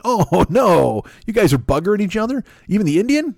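a hammed-up gasp of disbelief; shocked disbelief. Label guys react to the band.

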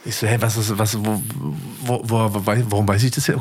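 stumbling over the question words; imitating own dumbfounded reaction, tripping over words; baffled stutter. Husband retelling his reaction at the doctor, baffled stutter. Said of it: "Guck mal, ich stotter jetzt schon".

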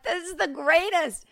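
slow, high-pitched relish; delighted. Retold or imitated. Daughter thrilled by her parents' grocery story, delighted. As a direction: gush it, savoring every word.

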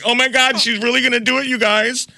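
put-on very high, squealing mean-girl voice. Mean girl plotting with friends to laugh at Stacey, mock squeal. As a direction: squeal it like a scheming schoolgirl. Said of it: "It was a show of being like mean girls".

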